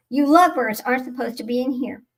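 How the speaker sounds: normal talking voice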